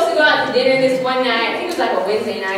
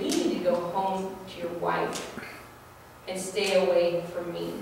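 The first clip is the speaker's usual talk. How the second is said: low stern warning; 6 semitones lower, 11 dB quieter than usual. Retold or imitated. Telling off married man.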